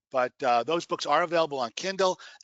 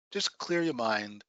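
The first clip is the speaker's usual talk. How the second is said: guided meditation. Acted. Meditation instruction.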